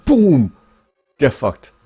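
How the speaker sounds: loud, high gloating yell; high mock victory shout; mock triumphant shout. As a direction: crow over the win as the rival. Acting out rival's winning run.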